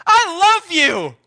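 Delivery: breezy dismissal. Pretend. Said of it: "You're gonna say".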